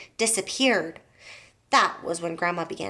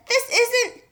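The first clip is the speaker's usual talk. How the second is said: cut-off protest; 3 dB louder than usual. A narrator's reading. George cut off.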